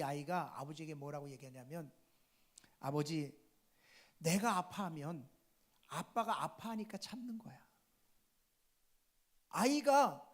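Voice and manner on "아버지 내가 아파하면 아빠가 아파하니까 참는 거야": softly voiced sick child, slow with pauses; subdued child's answer. Sick child explaining to father why he endures, subdued and soft. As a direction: answer gently, lightly imitating a suffering child.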